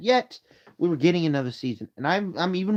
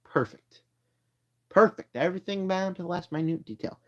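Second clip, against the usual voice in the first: Homelander impression; 2 semitones higher, 4 dB quieter than usual. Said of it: "Homelander says".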